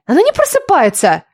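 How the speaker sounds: high, fretful cry of dismay; wailing complaint. A narrator's reading. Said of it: "запричитала Лиля".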